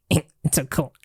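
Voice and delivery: slow, laughing delivery. Real, not acted. Host delighted at his podcast, slow laughing line. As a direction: let the laugh carry the line slowly. Reacting happily while talking.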